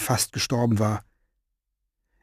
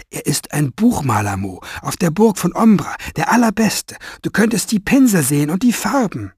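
higher, eager girl voice, lightly mimicked; imitating her voice; 6 semitones higher than usual. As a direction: copy his daughter's excited voice. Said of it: "Er ahmte ihre Stimme nach".

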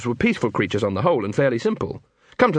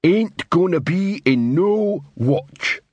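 slow, higher-pitched troll growl; 6 semitones higher, slower than usual. A narrator's reading. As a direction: refuse in a ponderous troll voice. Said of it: "growled Coalface".

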